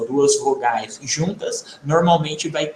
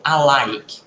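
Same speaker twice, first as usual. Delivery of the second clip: "alike" with unstressed "a", weight on LIKE; light first syllable; 3 semitones lower than usual. Shown as a demonstration. Teacher explaining emphasis to students, light first syllable. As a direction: ease into "alike", landing on the second syllable. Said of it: "não desse tanta ênfase no primeiro lá".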